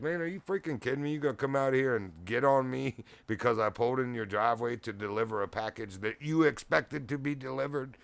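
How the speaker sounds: mildly hammed-up outrage; mock incredulous rant. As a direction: vent an imagined comeback, half laughing. Acted imagined rant at the customer.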